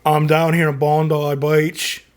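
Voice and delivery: attempted Australian accent, drawn out slowly. Shown as a demonstration. Host tries an Australian accent for a viewer from Canberra, slow amateur Australian accent. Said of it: "do my Australian accent".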